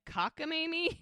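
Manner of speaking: high-pitched mock disbelief; incredulous echo. Muriel echoing Connie's odd word, mock incredulous.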